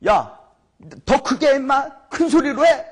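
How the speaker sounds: high-pitched jeer as Elijah; mocking taunt. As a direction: goad them with a mock order. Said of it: "그들을 조롱하면서".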